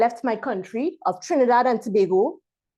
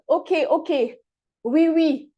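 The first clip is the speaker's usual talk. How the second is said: higher-pitched mock polite dismissal; imitated hasty agreement, pitched up; hurried brush-off reply; 4 semitones higher than usual. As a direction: imitate passers-by brushing someone off. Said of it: "they would reply quickly".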